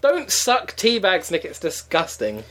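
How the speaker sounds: high, drawn-out start sinking away; hammed-up bad dialogue, slowly stretched; bad actor's line delivery. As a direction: spout a horrible line, slow and overdone. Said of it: "spouting these horrible bad lines".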